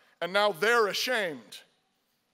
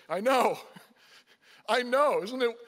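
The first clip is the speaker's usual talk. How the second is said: laughing admission; 3 semitones higher, 3 dB louder than usual. Retold or imitated. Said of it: "And you say".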